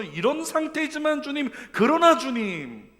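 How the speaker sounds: high, loud and slow, leaning on 상태지만; lifting eyes to God. Acted. Psalmist looking up to the Lord, slow loud plea. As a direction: plead upward, drawing out 상태지만. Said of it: "눈을 들어가지고 주님 바라보면서".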